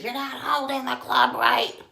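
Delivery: high, loud, slow mock bellow; mock yelling. Golf dad berating his kid, mock yelling. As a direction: imitate an exasperated dad yelling, drawn out. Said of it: "a guy yelling at his kid".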